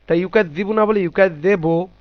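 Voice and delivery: ইউকাযযিবু said first with an o sound, then with a full u; ইউকাযযিবু, o versus u; wrong then right vowel. Shown as a demonstration. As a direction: contrast ইউকাযযিবু with o and with u. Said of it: "এই যে বো বলছি".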